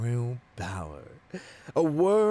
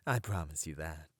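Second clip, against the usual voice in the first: quick, softer whispered promise; menacing whisper; 7 semitones lower, 7 dB quieter, faster than usual. Acted. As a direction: whisper it close, a threat dressed as comfort.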